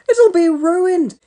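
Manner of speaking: high, loud, slow dismay; panicked shout. A narrator's reading. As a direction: wail over burnt food. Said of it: "shouted Elvis".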